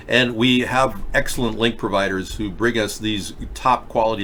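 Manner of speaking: talking around a mouth guard; words a little thick from a mouth guard. Real, not acted. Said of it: "I am wearing a mouth guard".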